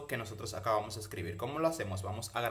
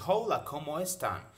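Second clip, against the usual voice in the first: put-on old speech synth; 4 semitones higher than usual. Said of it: "lo lee en inglés y dice".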